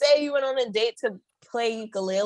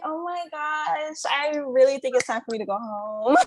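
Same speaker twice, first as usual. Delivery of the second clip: feigned excuse. Acted. Acts out polite escape from date.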